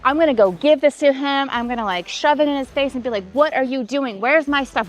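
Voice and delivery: replaying how riled up she felt, lightly; indignant retort, understated; retold angry outburst. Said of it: "I went into fight or flight".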